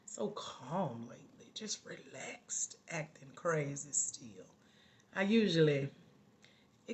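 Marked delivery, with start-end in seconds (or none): 0.0-4.5 soft, slow and relaxed; calm. Real, not acted. Host tells new viewers she's unusually relaxed today, calm. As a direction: let it drop to a hushed, slow ease. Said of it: "Girl, this is calm".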